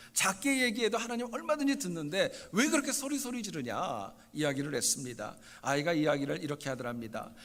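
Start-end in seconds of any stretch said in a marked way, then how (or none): 0.1-4.1 retold scolding, pitch rising high; mildly acted mother's dumbfounded reproach; exasperated mother. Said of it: "엄마가 너무 기가 막혀서".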